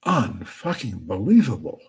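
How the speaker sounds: lightly voiced booming disbelief; a hint of a stunned booming voice. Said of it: "And the booming voice says".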